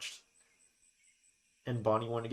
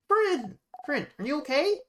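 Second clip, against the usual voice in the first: a little sister frightened for her friend; worried cry; 11 semitones higher than usual. Acted. Bonnie worried after fall.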